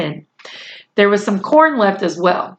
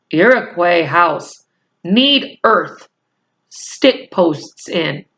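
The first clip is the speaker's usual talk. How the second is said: Little Bear voice; slower than usual. Acted.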